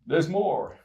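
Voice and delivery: upbeat TV pitchman; infomercial guy. Pretend. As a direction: sell it like a late-night ad. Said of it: "I sound like an infomercial guy".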